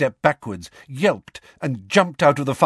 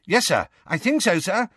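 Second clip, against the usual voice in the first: high-pitched, eager underling; eagerly; 10 semitones higher than usual. A narrator's reading. Note-taker reporting to his minister, eagerly. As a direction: answer keenly, anxious to please. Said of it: "said Percy eagerly".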